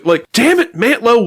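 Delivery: ordinary delivery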